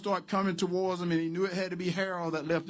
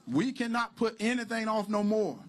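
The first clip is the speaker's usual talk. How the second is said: "We cannot put anything off no more" said higher and louder, in one push; louder insistence; 5 semitones higher, 5 dB louder than usual. Acted. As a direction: drive the repeat home, louder.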